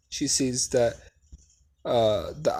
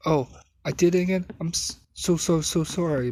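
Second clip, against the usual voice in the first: flustered apology; 5 semitones higher than usual. Acted.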